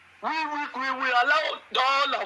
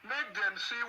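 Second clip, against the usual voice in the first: laughing scorn; 2 semitones higher, 10 dB quieter, much slower than usual. Real, not acted. Caller chuckles mocking boycott.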